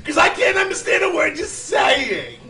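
laughing insult. Real, not acted. Host insults caller, laughing.

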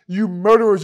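mock angry outburst; fired-up mock fury; hard metal rage. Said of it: "turns into more like hard metal".

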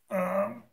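strained grunt while bending; effort grunt. Real, not acted. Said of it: "sorry if you hear me grunting".

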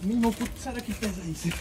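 panting after the climb; breathless and strained; wind knocked out. Real, not acted. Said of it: "tô sem ar".

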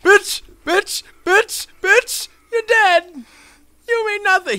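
high loud gloating shouts; taunting yells. Real, not acted. Shouting taunts at the player just killed. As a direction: gloat over the kill, loud.

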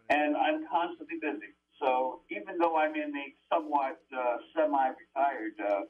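thin tinny voice with no bass; like talking from inside a tin can; tin can sound. Real, not acted. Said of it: "you sound like you're in a tin can".

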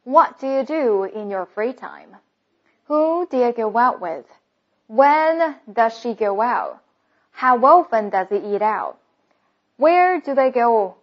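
careful read-through with "do you" and "does he" linked; linked model reading. Shown as a demonstration. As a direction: read each question through with its words run together. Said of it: "再给大家完整的读一遍". (完整示范连读)

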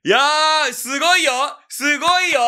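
loud, high excited praise, slowly drawn out. Real, not acted. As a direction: gush over the song. Excited reacting to song.

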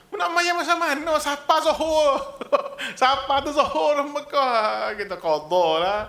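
high, loud mock protest; mock indignant. Preacher mimics careless pilgrim skipping prayer, mock indignant. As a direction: exclaim it high, stretching the end.

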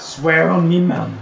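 put-on Cockney British, amused; mock British accent. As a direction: swear it in jokey British. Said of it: "Are we really doing British accents".

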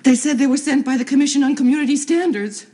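outraged. Acted. Woman telling Tom about the raid, loud and outraged. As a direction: blurt out the raid in indignant fury.

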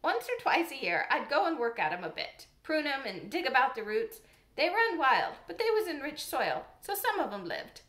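lightly voiced old countryman; old gardener voice. The gardener explains roses.

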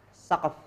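"Saqf" ending on a bare f; no final vowel. Shown as a demonstration. Teacher showing students the reading, "Saqf" without a final vowel. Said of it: "Jangan dikasih harokat ya".

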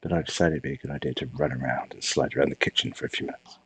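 breathing hard between words; heavy breathing. Real, not acted. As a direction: talk while catching your breath. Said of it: "I'm sorry for my heavy breathing".

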